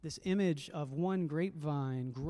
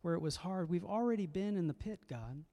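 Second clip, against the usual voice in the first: pleading psalmist; 4 semitones higher than usual. Retold or imitated. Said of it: "She's trying to remember and say".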